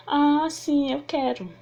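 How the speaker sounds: drawn-out "Ah", then a falling yes; demonstrated affirmative reply; affirmative answer. Shown as a demonstration. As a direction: answer yes, starting high and settling down. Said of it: "essa é a afirmativa".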